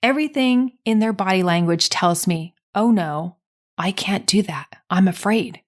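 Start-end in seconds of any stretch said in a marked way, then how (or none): 2.7-5.6 a lightly acted frightened voice dropping to a whisper; hint of imitated dread; imitating fear. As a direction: let a small mock fear slip out, half-whispered. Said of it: "Fear in the person's eyes".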